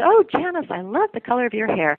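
high-pitched retold gush, easing down; gushing compliment. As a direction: gush to a colleague as if re-enacting it. Retelling her compliment to colleague.

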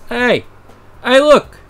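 put-on loud, high New York accent calls. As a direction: shout it out New York style. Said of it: "Now you can do a New York accent".

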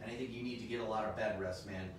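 playful doctor's advice; a hint of a caring doctor. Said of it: "This is your doctor speaking".

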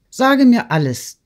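high, loud, eager prompting; urgent demand. A narrator's reading. Friend demanding the whole truth, urgent. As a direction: press hard for the whole story. Sonja presses Natalie for the truth.

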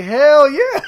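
high, loud, whooping hell yeah; mock Negan cheering; gleeful cheer. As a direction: cheer like a delighted villain. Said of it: "He's like".

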